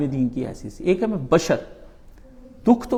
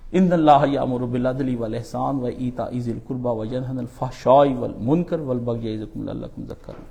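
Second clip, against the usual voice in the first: Quranic verse recitation. Real, not acted. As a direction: recite the verse in one continuous formal flow. (خطبے کے آخر میں آیت کی تلاوت)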